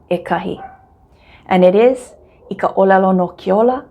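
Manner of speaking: ordinary delivery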